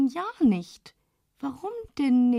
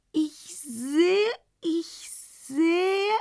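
higher rising exclamations; excited discovery; 5 semitones higher, much slower than usual. A narrator's reading. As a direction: realise with rising urgency. Else erkennt das Glas. (aufgeregte Entdeckung)

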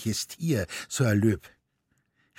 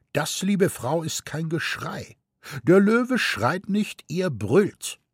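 higher, lecturing know-it-all; pedantic gentleman; 8 semitones higher than usual. A narrator's reading. Gentleman with pince-nez correcting the mother, lecturing. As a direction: correct her with raised finger.

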